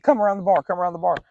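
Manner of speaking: mock drunk picking a fight; imitating a belligerent customer; taunting challenge.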